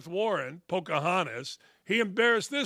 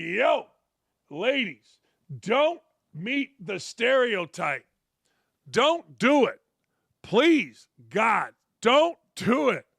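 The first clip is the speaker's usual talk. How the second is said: pleading plea to women; 2 semitones higher, slower than usual. Retold or imitated. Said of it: "I'd be like".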